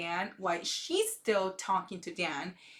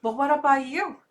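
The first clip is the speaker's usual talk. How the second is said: mock jab; 3 semitones higher, 5 dB louder than usual. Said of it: "throws the hardest blow and says".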